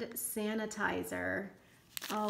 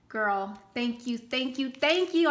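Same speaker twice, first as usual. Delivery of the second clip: building thanks; 2 semitones higher, 3 dB louder than usual. Real, not acted. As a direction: build each thank you up. Repeated thanks to friend.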